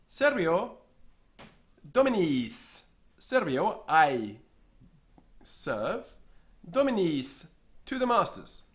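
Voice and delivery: secretary's answer. Acted.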